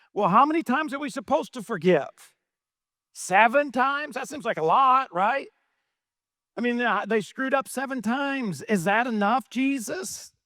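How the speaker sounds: Peter voiced. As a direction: play Peter haggling over forgiveness, half-joking. Preacher voices Peter asking Jesus.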